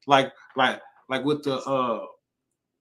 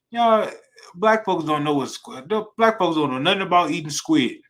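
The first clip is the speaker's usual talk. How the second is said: preaching call-out; 4 semitones higher, 4 dB louder than usual. Real, not acted. Preacher calling out to crowd.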